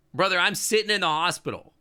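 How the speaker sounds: exasperated. Real, not acted. Exasperated at mom's words.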